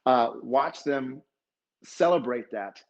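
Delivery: slow, halting words, choked up; real emotion slowing the words down; getting emotional. Real, not acted. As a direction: hold back real tears as you speak. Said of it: "look, I'm getting emotional".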